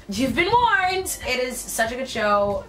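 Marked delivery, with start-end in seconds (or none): 0.1-1.2 loud, higher, slow mock proclamation; dramatic warning. Warning young viewers off the show, loud slow mock proclamation. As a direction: boom it out like a movie trailer.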